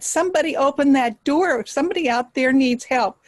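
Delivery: acted call for help; urgent order. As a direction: urge them to act for someone in need. Rabbit orders door opened urgently.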